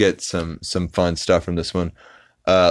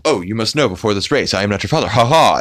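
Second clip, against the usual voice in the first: Speed Racer dub; 3 semitones higher, 4 dB louder, faster than usual. Retold or imitated. Speed's father warns him off the race, fast cartoon dub. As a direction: rattle it off like a rushed old anime dub.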